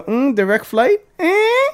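put-on light Jamaican accent, rising Eh; mock Jamaican traveller. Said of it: "I like your Jamaican accent".

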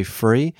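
"free" with an F sound instead of TH. Shown as a demonstration. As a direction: say "free" for three. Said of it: "I pronounced that number with an F instead of a T H".

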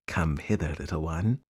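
low, soft coaxing creature; luring crocodile. Acted. Crocodile lures the elephant's child.

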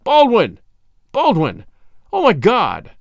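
a hint of panicked screaming. A narrator's reading. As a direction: call out for Baldwin, a touch of a scream. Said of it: "he screamed".

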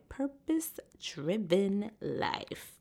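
hushed whisper. Real, not acted. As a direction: breathe it out unvoiced. Whispered ending.

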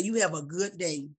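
sugary polite send-off with a smile; nice nasty. Shown as a demonstration. Showing how to answer upset people, nice nasty. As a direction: dismiss them sweetly, lightly put on. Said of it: "You just smile and say".

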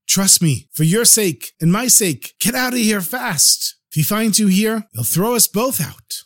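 a nervous servant hurrying the poor man off before his master returns; urgent servant. Acted.

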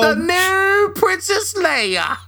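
high, slow lady falsetto; drawn-out prim lady voice; posh lady voice. Pretend. Posh lady impression continues.

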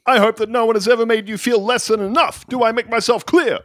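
drill sergeant shouting. Pretend. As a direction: call out the private like a drill sergeant. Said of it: "It's just that you are shouting".

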